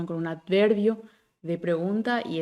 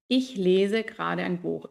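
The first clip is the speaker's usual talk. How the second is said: slow, Ich stressed, falling end; statement melody; slower than usual. Shown as a demonstration. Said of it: "esa entonación que tiene el alemán".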